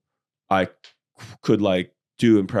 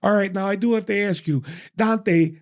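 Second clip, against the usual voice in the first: hammed-up overly courteous voice, much higher; higher mock-polite formal voice; 8 semitones higher than usual. Comedian retelling his Uber ride, mock-formal higher voice. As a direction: play it stiffly polite and grand. Retold self, put-on formal voice.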